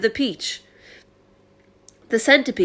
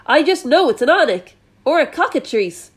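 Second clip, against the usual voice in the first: panicked fire chief; 5 semitones higher, 3 dB louder than usual. Acted.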